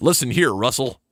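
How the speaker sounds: put-on American accent, a best attempt. Telling the dog off in a put-on voice: best american accent. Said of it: "you gotta use your best American accent".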